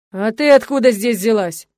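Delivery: loud, slow, scowling demand; хмуро и зло; sullen angry. A narrator's reading. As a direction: glower and bark it. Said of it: "насупился Яков Григорьевич".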